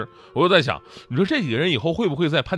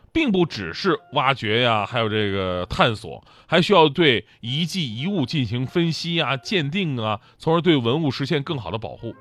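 patient explaining. Retold or imitated. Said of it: "非常耐心地跟我解释说".

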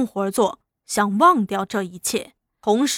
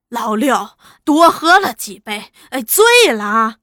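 playing dumb; 4 dB louder than usual. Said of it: "爬起来还装傻".

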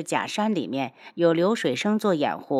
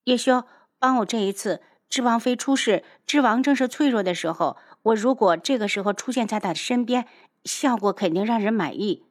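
higher-pitched coaxing; cajoling request; softened, pleading; 4 semitones higher than usual. Acted. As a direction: drop the hostility and ask a favor. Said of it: "放软了语气".

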